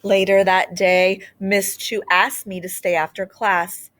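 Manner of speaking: gentle, expressive storybook reading; reading to children. Acted. Teacher reading a storybook aloud to children, expressive. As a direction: read it aloud like a picture book to a class. Reads a picture book aloud.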